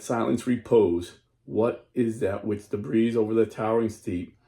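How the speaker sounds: solemn recited reading of the anthem; reading anthem aloud. Acted. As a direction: read the lyrics with reverence. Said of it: "I'm gonna read you".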